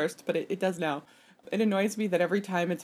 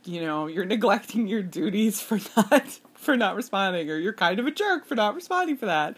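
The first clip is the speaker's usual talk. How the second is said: judgmental phone voice; 3 semitones higher, 3 dB louder than usual. Retold or imitated. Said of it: "in this way that says".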